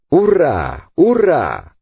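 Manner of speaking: two high hurrahs, each swooping down; exclaimed cheers. A narrator's reading. Sailor cheering the victory over the apes, exclaiming. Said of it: "exclamó Pencroff".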